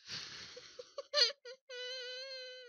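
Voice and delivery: long, thin, high-pitched wail; high whine. Real, not acted. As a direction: let out a soft drawn-out squeal. Despairing at the match.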